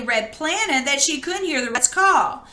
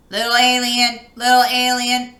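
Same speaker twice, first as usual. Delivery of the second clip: robot call; 4 dB louder than usual. Acted. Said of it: "it boinked".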